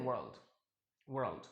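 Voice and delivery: वर्ल्ड with the r said, low and soft; वर्ल्ड, r clearly said; American pronunciation. Shown as a demonstration. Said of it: "कैसे कहते हैं?". (American उच्चारण में वर्ल्ड)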